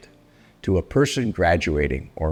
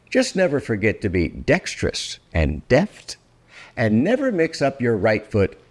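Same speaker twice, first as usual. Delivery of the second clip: expressive read-aloud of a rhyming picture book; storybook reading. Acted. Reading Oh, the Places You'll Go aloud to grown-up listeners, lively storybook narration. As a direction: read it like a bedtime rhyme, savouring each line.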